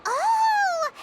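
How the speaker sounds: high, loud Oh of a breakthrough; sudden realization. Acted. Paimon cracking the time loop mystery, excited realization. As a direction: it just clicked.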